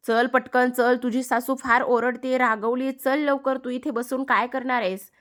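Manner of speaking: mildly urgent messenger voice; urgent nagging. Acted. Boy urges Radha to hurry home.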